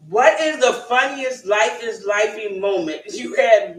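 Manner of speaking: asking through laughter; laughing. Real, not acted. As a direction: giggle while asking. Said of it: "I'm laughing because".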